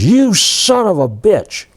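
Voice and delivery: high, drawn-out mock shout; retold angry outburst. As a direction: act out a commander's sudden angry accusation. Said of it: "he's really mad".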